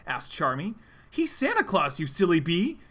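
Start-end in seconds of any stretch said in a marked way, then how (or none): 1.1-2.8 mild yell. Acted. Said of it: "S P O yelled".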